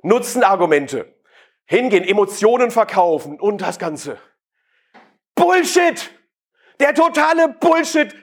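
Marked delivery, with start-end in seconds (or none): 5.3-8.1 emphatic outburst. Real, not acted. Speaker dismissing the sales tricks to the audience, emphatic outburst. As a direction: blast the idea away. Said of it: "Das ist Quatsch!".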